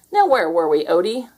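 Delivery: sly, playful question; mischievous. Acted. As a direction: ask it up to no good. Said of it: "asked Garfield mischievously".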